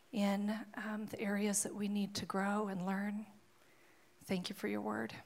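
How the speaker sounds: hushed, reverent pastoral prayer. Real, not acted. Prays aloud before the sermon.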